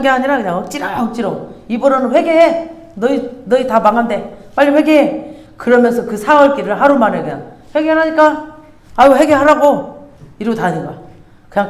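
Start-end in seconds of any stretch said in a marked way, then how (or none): 1.7-5.4 half-hearted, annoyed nagging to repent; grudging warning. Retold or imitated. Reluctant Jonah preaching grudgingly. 7.7-10.1 higher, irritated "repent already"; exasperated nagging. Retold or imitated. Jonah nagging grudgingly.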